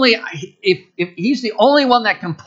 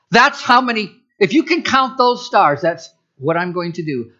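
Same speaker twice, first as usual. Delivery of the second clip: preacher voicing God pointing at the stars; 3 semitones higher than usual. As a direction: paint the sky with wonder.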